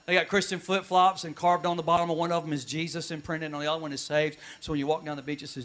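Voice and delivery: sarcastic aside. Acted. Pastor mocking Christian bookstores to the congregation, dry sarcasm. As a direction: tease the church merchandise. Sarcastic comic bit, softer.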